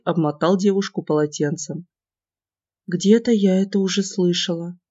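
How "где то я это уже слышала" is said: muffled murmur into his chest; face in chest. Acted. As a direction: mumble with face pressed in. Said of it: "пробормотала она, уткнувшись мне в грудь".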